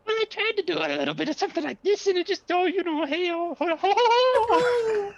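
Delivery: high, fast leprechaun voice; squeaky little leprechaun, laughing ho ho. Shown as a demonstration. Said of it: "And I tried doing a voice".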